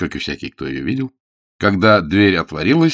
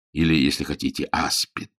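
usual speaking voice

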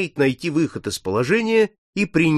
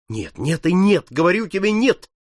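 higher, insistent refusal; exclaiming refusal; 5 semitones higher than usual. Acted. Captain refusing Paul's foreboding, insistent. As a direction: hammer each no home. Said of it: "воскликнул Сорвиголова".

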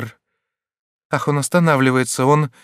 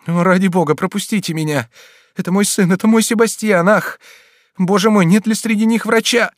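somewhat raised, anxious pleading; a touch of pleading; 4 semitones higher than usual. Acted. Mother begs the crowd to let her through, anxious. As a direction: push through the crowd, begging.

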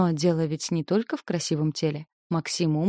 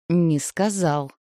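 slow, restrained irritation; through gritted teeth; much slower than usual. A narrator's reading. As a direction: force it out through clenched teeth. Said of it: "сквозь зубы выдохнула Ника".

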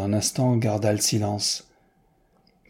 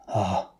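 sigh; 3 dB quieter than usual. A narrator's reading. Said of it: "fit Newman en soupirant".

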